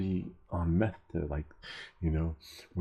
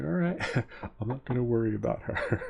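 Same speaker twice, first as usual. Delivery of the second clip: high, rising pitch, giving in with a laugh; mock compliance; 5 semitones higher than usual. Cyclist gives in to officer, high-pitched mock compliance. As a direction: act out backing off, amused.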